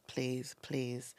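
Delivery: unvoiced begging whisper; whispered prayer. Mum praying to God for her son, whispering. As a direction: plead under the breath.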